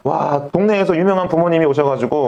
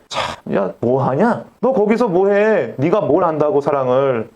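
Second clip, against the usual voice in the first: 하나님; slower than usual. Acted. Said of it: "얼마나 하나님 보시기에".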